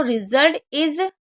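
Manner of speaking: drawn-out dictation; very slow read. Shown as a demonstration. Teacher slowly reads the phrase for the class. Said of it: "इसको पढ़िए".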